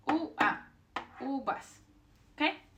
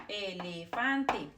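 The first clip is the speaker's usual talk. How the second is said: "Elefante" slowly, each vowel held clearly; sounding out vowels; slower than usual. Shown as a demonstration. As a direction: stretch out every syllable of "Elefante". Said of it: "They will always sound the same".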